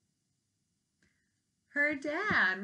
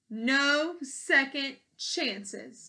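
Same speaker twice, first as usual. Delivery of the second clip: stern declaration; 4 semitones higher, 4 dB louder, much slower than usual. Acted. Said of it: "declared the queen".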